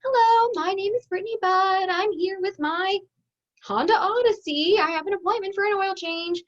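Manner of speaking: chirpy car owner checking in; customer at the service desk. Retold or imitated. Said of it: "you're like".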